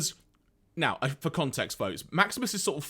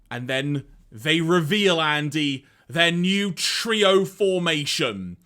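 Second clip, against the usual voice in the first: dramatic reveal; 4 dB louder, slower than usual. A narrator's reading. Dramatic narration build-up.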